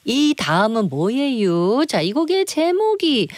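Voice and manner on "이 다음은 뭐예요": slow, drawn-out Chungcheong question; Chungcheong dialect. Acted. Quiz host repeating the singer's question, in Chungcheong dialect. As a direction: ask it with a leisurely Chungcheong lilt. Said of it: "상대가 충청도 사투리로 물어보니까".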